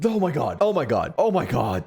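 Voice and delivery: gasp, then stunned oh my God; shocked gasp. Real, not acted. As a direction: caught off guard by the twist. Reacts to scary story twist.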